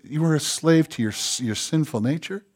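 hushed voiced murmur, as God speaking; softly voiced imitation of a whisper; mild stage whisper. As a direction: speak it softly, almost confiding. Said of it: "God whispered".

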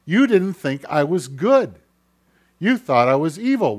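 loud, swooping accusation at God; accusing complaint. Acted. Preacher voices a believer arguing with God, accusing.

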